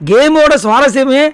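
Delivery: usual speaking voice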